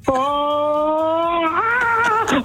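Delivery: squealing high with real excitement; thrilled caller, pitch soaring; over the moon. Real, not acted. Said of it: "just the excitement alone".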